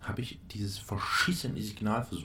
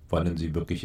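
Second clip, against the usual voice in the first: flat robotic monotone; computer voice; 3 semitones lower, 4 dB louder than usual. Shown as a demonstration. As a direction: speak like a machine prompt. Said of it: "nein, Computerstimme, also ungefähr so".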